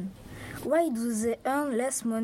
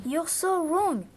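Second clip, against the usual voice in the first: higher, slow, drawn-out rebuttal; emphatic contradiction; 5 semitones higher than usual. Acted. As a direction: contradict them slowly with rising pitch. Opponent rebuts in staged debate.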